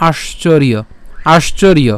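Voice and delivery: আশ্চর্য with য sounded as "iyo"; joined-up pronunciation. Shown as a demonstration. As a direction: say আশ্চর্য as "aash-chor-iyo". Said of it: "তাহলে উচ্চারণটা হবে কেমন". (আশ্চর্য, য-এর উচ্চারণ ইয়র মতো)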